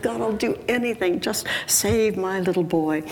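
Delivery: desperate plea. Acted. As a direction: bargain with God as a distraught mother. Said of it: "She's beside herself".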